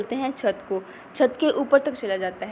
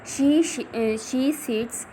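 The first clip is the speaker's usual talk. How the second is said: slow reading aloud; much slower than usual. Shown as a demonstration. Teacher reads text slowly.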